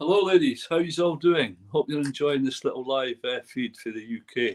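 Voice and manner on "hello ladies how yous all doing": big, hearty, loud, high-pitched voice. Greeting the viewers after being asked to: saying hello really loud. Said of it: "really loud".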